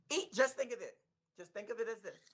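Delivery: slight lisp, retainers in. Real, not acted. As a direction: talk through a retainer lisp. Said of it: "so I'm kinda lisping".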